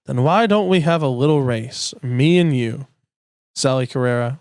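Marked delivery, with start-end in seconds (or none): 0.1-2.9 Doc voice. Acted. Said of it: "Doc Hudson".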